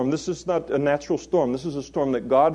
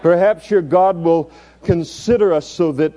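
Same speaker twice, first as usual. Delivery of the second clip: raised, urgent captain's voice; ship's captain rousing sleeper; 6 semitones higher, 5 dB louder than usual. Acted. Captain urging sleeping Jonah to pray, loud urgent call. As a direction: rouse him loudly, pitched up. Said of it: "says to him".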